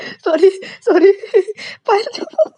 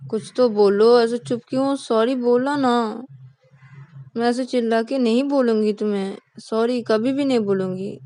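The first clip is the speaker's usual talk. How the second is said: pleading apology; 3 semitones higher, 4 dB louder than usual. Acted. Ananya begging Payal to forgive her, pleading. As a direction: coax a sulking friend into talking.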